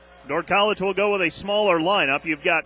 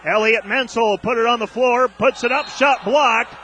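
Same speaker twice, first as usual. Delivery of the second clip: excited call; 3 semitones higher, 4 dB louder than usual. Real, not acted. Announcer calling a blocked shot, excited rise. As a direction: jump on the block as it happens.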